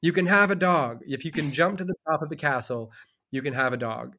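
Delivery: high, loud mock royal voice; hammed-up king laying down the law; king's decree. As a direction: proclaim it like a pompous king. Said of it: "and he's like".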